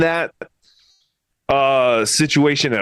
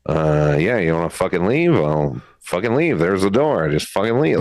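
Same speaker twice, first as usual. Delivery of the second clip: low, sneering smoker's brush-off; impression of Pat; 10 semitones lower than usual. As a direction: voice a contemptuous man telling her to leave, pitched low. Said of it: "I could see Pat sitting there smoking".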